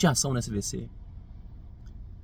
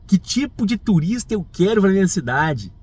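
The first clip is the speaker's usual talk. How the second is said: higher, incredulous repeat of the question; indignant quoting; 5 semitones higher than usual. Retold or imitated. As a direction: throw the question back in outrage.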